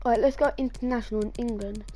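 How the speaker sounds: blocked nose after a nosebleed. Real, not acted. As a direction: talk through a stuffed-up nose. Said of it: "If you're wondering why I sound weird, it's because I had a nosebleed today".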